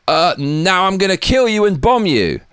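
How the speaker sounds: a lightly hammed-up feeble tough-guy promise; mock Biden threat. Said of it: "then you say".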